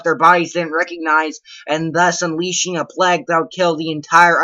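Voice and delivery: animated, mock-outraged tirade; worked-up comic report reading; ranting report reading. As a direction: rant through the report in disbelief.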